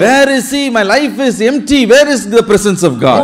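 high, pleading questions of a lost believer; voiced lament, starting high and easing down; acted despairing plea. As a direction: ask it as if God has gone missing. Voicing a despairing believer's complaint.

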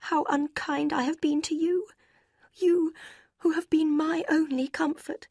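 put-on high, pleading young woman's voice; tearful sister. A narrator's reading. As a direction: beg forgiveness in a high, tender voice. Sister's tearful apology to Eleanor.

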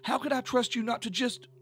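high-pitched, upset accusation, halting then rushing; angry. A narrator's reading. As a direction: confront her, stumbling over the words. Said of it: "Tish had said angrily".

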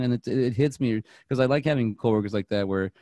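normal talking voice

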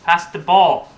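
loud demanding call; cover me shout. Real, not acted. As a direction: bark it at a teammate. Demanding the ball from teammates.

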